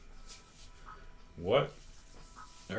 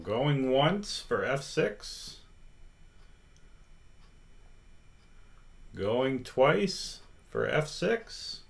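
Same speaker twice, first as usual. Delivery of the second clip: auctioneer call; slower than usual. Pretend. Auctioneer-style vote countdown.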